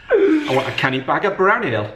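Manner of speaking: a steady Geordie order for brown ale; Geordie accent. Pretend. Dad orders brown ale in a mock Geordie accent. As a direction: play a Geordie asking at the bar. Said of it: "I'm not gonna do my Geordie accent".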